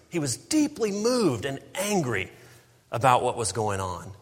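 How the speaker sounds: preached with anger. Shown as a demonstration. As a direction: let the fury ring out in the verse. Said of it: "It means rage, anger, fury".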